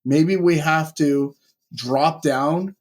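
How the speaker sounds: wired and rushing on espresso; over-caffeinated, racing through it; too much caffeine. Real, not acted. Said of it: "I'm wired right now".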